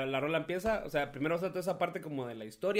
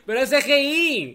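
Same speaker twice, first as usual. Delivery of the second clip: higher and louder through laughter; laughing hard; 9 semitones higher, 9 dB louder than usual. Real, not acted. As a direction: squeeze the words out between laughs. Dice riéndose a carcajadas. (diciéndolo muerto de risa)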